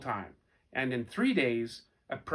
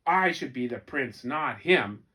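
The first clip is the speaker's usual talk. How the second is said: angry soldier; 5 dB louder than usual. Acted. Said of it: "said the other angry soldier".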